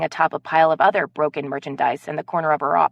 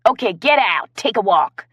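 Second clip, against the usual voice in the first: higher, louder squeak through held laughter; fighting off the giggles; gasping squeaky stifled laugh; squeaked and gasped; 4 semitones higher, 6 dB louder than usual. Acted. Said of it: "she squeaked and gasped".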